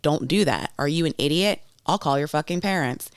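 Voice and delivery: mildly exasperated mock telling-off; mom-style scolding. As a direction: lightly imitate yourself momming reckless friends. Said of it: "I am momming them".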